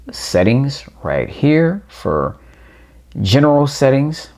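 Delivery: ordinary delivery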